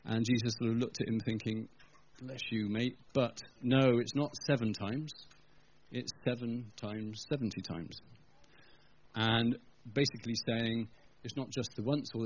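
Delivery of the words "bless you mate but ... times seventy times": gentle. Acted. Jesus voiced gently to disciple.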